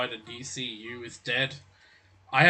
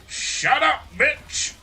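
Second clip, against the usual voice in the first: much higher, louder mock yell; Rock's shout; 12 semitones higher, 4 dB louder, much slower than usual. Quoting the Rock's clip to a friend, high mock yell. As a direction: bark it like the Rock cutting down a rival. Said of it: "that one clip of The Rock".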